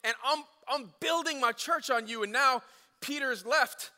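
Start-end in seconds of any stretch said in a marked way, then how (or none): 0.0-2.2 loud, high, laid-back bro voice; Jesus as your easygoing buddy; casual bro Jesus. Retold or imitated. Preacher voicing Jesus as a bro to Peter, loud and casual.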